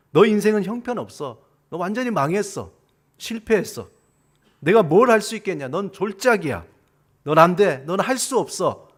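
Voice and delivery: loud, emphatic acted condemnation. Devil to believer, loud crushing put-downs. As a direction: hammer each put-down home in short bursts. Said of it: "죽이는 소리로 우리를".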